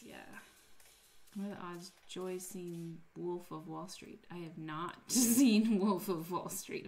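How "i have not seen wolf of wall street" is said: louder, slower, laughing through it; laughing denial. Real, not acted. Admitting to chat she never saw the film, laughing.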